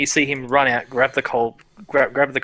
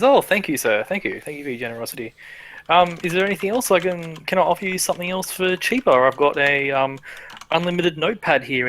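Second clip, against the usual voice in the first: fawning merchant; 3 semitones higher than usual. Acted.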